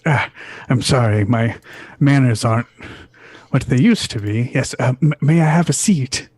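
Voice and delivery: lightly voiced, halting old gentleman; a hint of a fumbling, courteous old man; apologetic old patron. Old patron apologizes, asks for seat.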